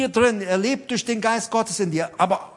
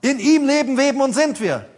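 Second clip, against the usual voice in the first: louder, higher preaching voice; emphatic proclamation; 4 semitones higher, 5 dB louder than usual. Real, not acted. Preacher drives Paul's verse home to the congregation, forceful and raised.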